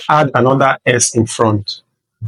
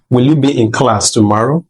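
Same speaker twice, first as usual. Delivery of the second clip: "Will you be in class tomorrow" as a question with a rising end; question intonation. Shown as a demonstration. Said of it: "there's a way a question should be asked".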